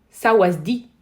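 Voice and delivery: very loud Thai greeting, rising end; calling out. Pretend. Retrying a Thai greeting, calling out. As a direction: call it out with a lift at the end.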